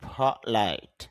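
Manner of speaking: polite with a puff, pholite; aspirated p. Shown as a demonstration. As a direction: say polite with a breathy ph. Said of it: "বাতাস বের করতে পারি আমরা".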